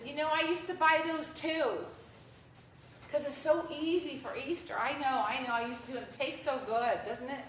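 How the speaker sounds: loud, friendly pitch. Retold or imitated. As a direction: call out cheerfully so everyone hears. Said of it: "kinda loudly".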